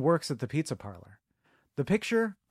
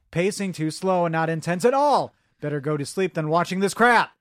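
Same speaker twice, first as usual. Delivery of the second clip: yelling; 6 dB louder than usual. Acted. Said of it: "So the yelling part".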